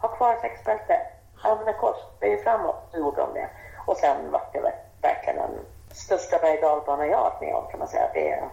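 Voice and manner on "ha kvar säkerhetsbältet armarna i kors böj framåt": higher-pitched, mildly raised commands; imitated shout, held high on each order; retold shouted orders. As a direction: re-enact calling out emergency instructions. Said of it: "då bara skrek jag".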